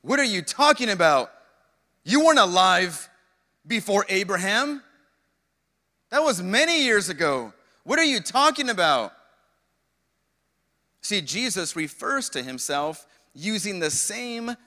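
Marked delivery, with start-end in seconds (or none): 0.0-9.1 incredulous crowd. Retold or imitated. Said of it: "Their jaws dropped".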